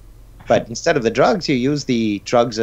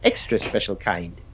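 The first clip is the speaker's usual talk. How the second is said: slow Irish leprechaun pitch; 3 semitones higher, slower than usual. Pretend. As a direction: sell the cereal like a leprechaun. Leprechaun cereal ad voice.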